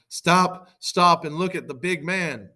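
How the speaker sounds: loud, high halting call. Acted. Hector stops the Trojans to look, loud high call. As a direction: halt the troops with an acted shout. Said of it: "Hector called out to the Trojans".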